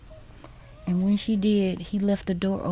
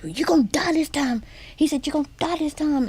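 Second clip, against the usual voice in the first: whispered threat; 7 semitones higher, faster than usual. Retold or imitated.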